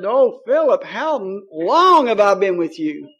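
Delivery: imitating a discouraged plea. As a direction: draw it out like a worn-out teacher, retold. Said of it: "he got discouraged".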